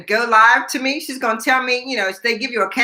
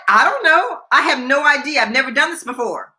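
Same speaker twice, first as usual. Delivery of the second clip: high-pitched, retold helplessness; flustered reply; 4 semitones higher than usual. Rookie reporter answering the photographer, mock flustered. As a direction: play up being clueless, pitch jumping up.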